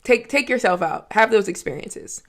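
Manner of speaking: sincere advice. Real, not acted. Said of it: "I really just want y'all to know".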